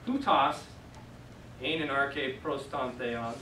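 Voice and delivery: slow, careful recitation of Greek; quoting scripture slowly in Greek; slow Greek reading. Shown as a demonstration. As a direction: read the verse slowly. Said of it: "when this was in the beginning".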